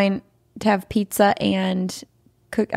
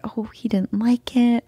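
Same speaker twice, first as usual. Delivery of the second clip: whispered thought; 3 semitones higher, slower than usual. Retold or imitated. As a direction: whisper it to yourself, slowly. Recalling her sad inner thought.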